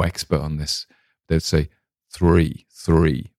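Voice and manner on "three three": THREE with its R pronounced before the vowel; R sounded before vowel. Shown as a demonstration. Showing how Maine speakers say THREE, R sounded. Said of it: "It has R's before vowels".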